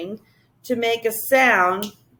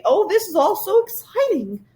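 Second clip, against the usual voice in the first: high, delighted creature voice; a giddy high creature, thrilled; happy lisp; 10 semitones higher than usual. Acted. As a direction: gush it out with glee. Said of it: "the Whangdoodle lisped happily".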